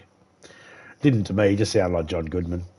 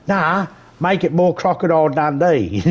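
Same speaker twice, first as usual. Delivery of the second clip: imagined booth director; 8 semitones higher, 3 dB louder than usual. Retold or imitated. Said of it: "he probably got told in the booth".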